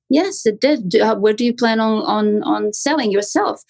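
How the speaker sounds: "Yes" lifted, then an easy hesitant question; conversational script intonation. Shown as a demonstration. Agent answering a homeowner's question, natural intonation with "on" repeated hesitantly. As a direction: stumble casually on "on, on", lifting "selling yourself". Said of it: "but in the intonation, you have pauses".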